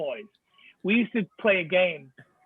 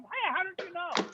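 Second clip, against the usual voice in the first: put-on Boston accent; 10 semitones higher, 6 dB quieter than usual. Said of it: "revert back to that Bostonese".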